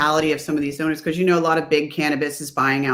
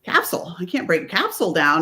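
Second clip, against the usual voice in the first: retold disbelief; 3 dB louder than usual. Customer questions clerk's hundred milligram capsule, incredulous. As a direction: question it as if taken aback. Retelling her startled reply to clerk.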